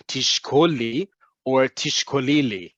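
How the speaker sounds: תשקול לי run together, the two l sounds merged; elided as one word. Shown as a demonstration. Teacher shows learners the two words elided, run together as one. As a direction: glide תשקול לי into a single word. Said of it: "put it as one word".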